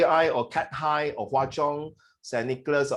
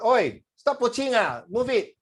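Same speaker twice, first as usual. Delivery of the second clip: Singlish; 7 semitones higher than usual. Shown as a demonstration. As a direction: bark it like a pushy Singapore commuter. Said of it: "When you say the word".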